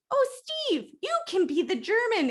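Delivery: very high, put-on church lady voice. Church lady casting Steve in a play, in a high mock voice. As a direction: coo it like an amateur-play organiser, pitched high. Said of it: "your church lady's basement".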